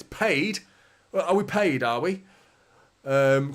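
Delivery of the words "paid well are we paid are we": higher-pitched, disbelieving question; incredulous echo. Real, not acted. Streamer questions a chatter calling creators paid, incredulous. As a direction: throw the word back as a question.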